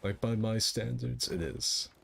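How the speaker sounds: light, airy pirate voice. Real, not acted. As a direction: keep the easy pirate voice going. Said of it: "The pirate voice ... easier on my throat".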